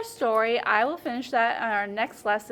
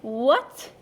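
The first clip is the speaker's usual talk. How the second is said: cried out; 7 dB louder than usual. Acted. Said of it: "cried Mister Rabbit".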